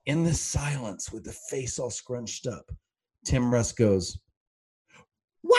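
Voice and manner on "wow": sudden long, loud wail; imitated yell. Imitating an actor's prank yell on a silent set, really loud. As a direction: burst out with a startling drawn-out yell. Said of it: "Like, really loud".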